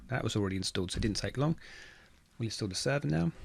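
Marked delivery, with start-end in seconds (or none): 2.4-3.3 talking through a yawn; words stretched by a yawn. Real, not acted. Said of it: "Sorry if you caught me yawning there".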